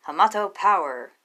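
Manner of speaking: a proud, mildly hammed-up ninja battle cry. Hero shouts his battle cry.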